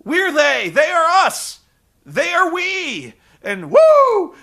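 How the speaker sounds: high, loud, hammed-up wrestler impression; over-the-top yelling, capped with a whoop; Ric Flair. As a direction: crow it like a showboating wrestler. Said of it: "And Ric's like".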